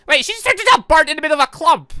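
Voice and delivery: loud, high disbelieving shout; shocked outburst. Real, not acted. Startled as she turns into a bird mid-club, loud shout. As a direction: yell it in total shock.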